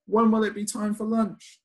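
high, sing-song hungry question; hungry refrain. Acted. Child in the story wondering about lunch, high sing-song voice.

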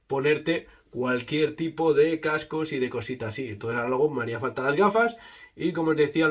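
muffled behind mesh balaclava; speaking through covered mouth; tags: through a face mask. Real, not acted. Seen 5: Speaker wears a mesh balaclava over his mouth throughout; R frames are unmasked.

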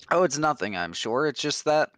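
lightly voiced nervous monk, a touch uneasy; worried monk voice. A hint of a nervous monk telling Esther about Coverus. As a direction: play the fretful monk confiding his worries.

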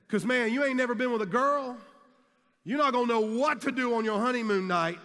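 high, loud taunting jock voice; mocking teammate. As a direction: rub it in, laughing at him. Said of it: "He said".

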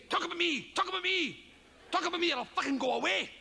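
the idea pesters him to speak, lightly voiced. The idea demands to be talked about, lightly voiced nagging. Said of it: "something will come in and say".

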